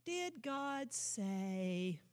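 mocker's doubting echo. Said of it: "The voice of the mocker".

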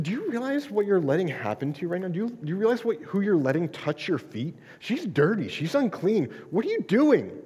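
acted, mildly hammed-up indignation; indignant scolding. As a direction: scold in disbelief, playing the scandalized onlooker.

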